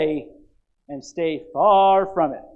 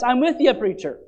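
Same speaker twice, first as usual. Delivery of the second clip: higher, louder amen-style shout of support; congregant calling out; 5 semitones higher, 6 dB louder than usual. Retold or imitated. Churchgoer backing the preacher, loud high call-out. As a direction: call back to the pulpit in agreement. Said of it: "they're helping the preacher to know this".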